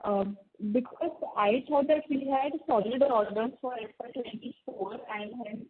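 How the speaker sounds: muffled voice, as through a hand; speaking with hand over mouth. Real, not acted. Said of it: "you're sounding muffled".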